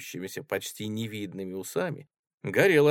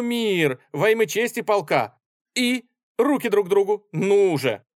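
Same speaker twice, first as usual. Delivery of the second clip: high, loud pleading mediation; urgent peacemaking; 7 semitones higher, 5 dB louder than usual. Acted. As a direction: press them to shake hands. Peacemaker urges reconciliation. (Воробьёв горячо мирит офицеров)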